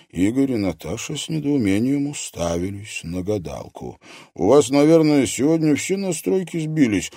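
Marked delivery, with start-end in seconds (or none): 4.3-7.1 louder, higher irritated snap; annoyed young man scoffing. A narrator's reading. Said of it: "раздражённо бросил Игорь".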